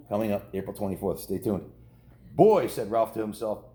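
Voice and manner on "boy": high, loud burst of delight; excited. A narrator's reading. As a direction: gasp it out thrilled. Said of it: "his whiskers quivering with excitement".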